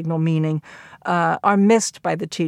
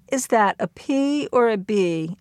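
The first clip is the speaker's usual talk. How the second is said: slightly raised, questioning pupil voice, lingering on P; asking for encouragement; 3 semitones higher than usual. Retold or imitated. Freddie asking the teacher for encouragement, tentative. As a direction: ask carefully, hoping for help. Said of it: "the way that Freddie asked for encouragement".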